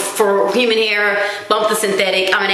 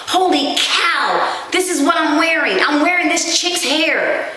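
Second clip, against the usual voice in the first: slow, higher, disgusted disbelief; horrified thought; 5 semitones higher, slower than usual. Retold or imitated. Imagining the hair man's bag of ponytails, slow disgusted gasp. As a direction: drag out the horror. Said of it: "And I'm thinking".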